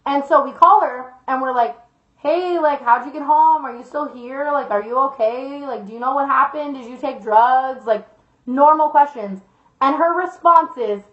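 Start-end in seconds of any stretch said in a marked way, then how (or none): 2.2-7.9 soft, tentative check-in; careful questioning. Retold or imitated. Friends phone the girl the next morning, carefully questioning. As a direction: gently feel out a friend, going softer.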